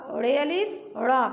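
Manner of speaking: "रे अलिफ रा" repeated very slowly, each part drawn out. Shown as a demonstration. Teacher repeats the letter pair slowly for the children. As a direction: stretch every syllable of "रे अलिफ रा". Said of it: "पढ़ के भी बता देती हूँ".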